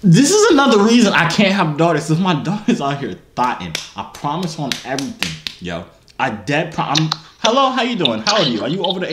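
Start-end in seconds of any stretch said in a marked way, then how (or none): 0.0-3.7 exasperated outburst, starting loud and high; mock exasperation. Prankster ranting about having daughters, mock exasperation. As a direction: cry out in mock parental dismay, then settle. Reacting in mock outrage to girls.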